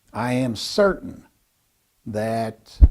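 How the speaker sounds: deliberate, with a long pause before THAT; definitive. Shown as a demonstration. Speaker coach models a power phrase, deliberate and certain. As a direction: separate THAT with a measured pause. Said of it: "hear what they sound like".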